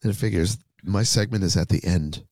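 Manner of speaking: rough, worn-out voice; hoarse sick voice. Real, not acted. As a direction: speak hoarse from a fever. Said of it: "my voice is just getting worse".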